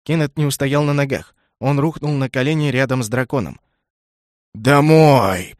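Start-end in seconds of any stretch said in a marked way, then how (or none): 4.5-5.5 loud, drawn-out groan of a word; dragon groan. A narrator's reading. Dragon moaning at the thought of home, loud. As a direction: moan it out in despair. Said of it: "простонал дракон".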